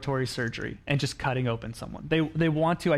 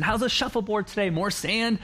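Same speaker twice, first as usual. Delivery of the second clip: lightly voiced eager-to-please cruise director, pitched higher; 5 semitones higher than usual. Pastor as cruise director checking on passengers, lightly voiced attentive host. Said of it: "he was a cruise director".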